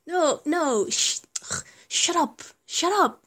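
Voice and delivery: loud, high, giggling shut up; laughing protest. Acted. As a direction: laugh while pushing back the teasing. Giggly protest while being teased.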